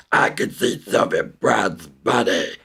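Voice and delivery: deep spooky voice. Shown as a demonstration. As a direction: creep them out with a low ghostly murmur. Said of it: "Start talking in a deep voice and say".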